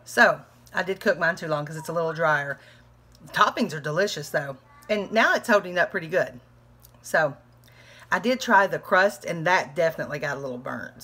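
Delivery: talking through a bite; words round a mouthful of pizza; mouth full. Real, not acted. Vlogger tasting pizza while talking with mouth full. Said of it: "I'm talking with my mouth full".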